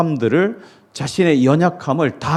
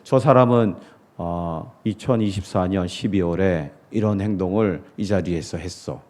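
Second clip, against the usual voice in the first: gossiping; 8 semitones lower, 5 dB quieter than usual. Retold or imitated. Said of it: "우리는 사람들을 바라볼 때".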